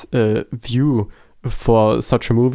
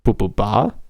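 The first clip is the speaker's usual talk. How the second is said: questioning beep sounds; 2 semitones lower than usual. Pretend. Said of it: "what you mean is".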